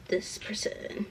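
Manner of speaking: whispered under the breath; a soft, whispered aside; muttering to herself. Real, not acted. Sorting clothes to give away, hushed whisper.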